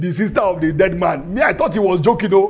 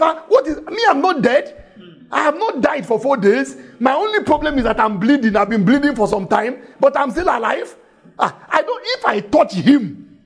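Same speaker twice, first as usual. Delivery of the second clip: lightly voiced woman; 5 semitones higher than usual.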